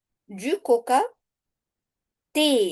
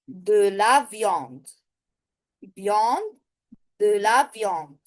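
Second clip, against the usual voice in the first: slow model; 2 semitones lower than usual. Shown as a demonstration. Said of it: "teacher models the partitive".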